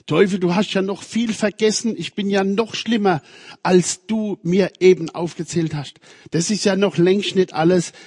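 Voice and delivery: Luther defiant. Retold or imitated. Luther shouting back at the accusing devil, defiant. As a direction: hurl the confession back at the devil.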